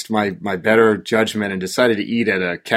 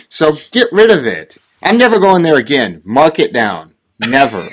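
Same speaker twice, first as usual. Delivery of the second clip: mad vow; 2 semitones higher, 3 dB louder than usual. Real, not acted. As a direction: swear off the restaurant for good. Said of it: "I was so mad".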